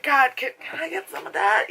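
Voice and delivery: high, wheedling comic beg; jokey high-pitched plea; mock pleading. Broke viewer begging for the character's cash, mock pleading. Jokingly begs for the film's money.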